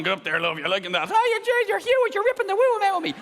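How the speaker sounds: put-on Irish accent, jumping very high for the woman; a rough Irish bloke then a shrieking Irish woman; Irish porn couple. Irish porn actors mid-scene, Irish accent, shrill high woman. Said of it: "Irish porn".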